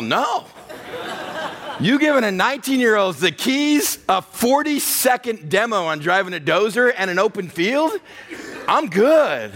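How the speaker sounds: laughing through the words; amused, laughing disbelief. Real, not acted. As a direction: chuckle out the memory of being left alone. Laughing at his own story.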